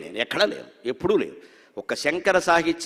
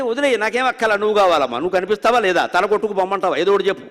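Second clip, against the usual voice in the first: pleading devotee; 4 dB louder than usual. Retold or imitated. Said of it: "అని రామకృష్ణ పరమహంస ... లాగాలి".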